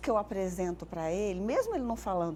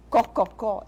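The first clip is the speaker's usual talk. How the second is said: cococó, louder, clipped example; demonstrating hen sound; 7 dB louder than usual. Shown as a demonstration. Therapist quoting the hen sound to parents, lightly performed. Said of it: "ensino uma criança a falar".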